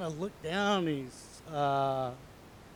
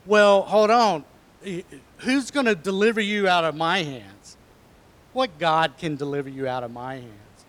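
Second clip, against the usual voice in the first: king's challenge; 6 dB louder than usual. Acted. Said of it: "the king was like".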